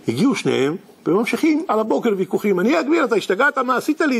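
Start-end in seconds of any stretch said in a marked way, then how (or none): 2.6-4.2 raised arguing. Acted. Acted morning argument.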